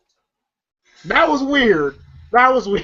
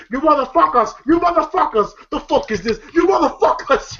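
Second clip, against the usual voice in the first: mock screaming; 6 semitones higher than usual. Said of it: "comes and screaming".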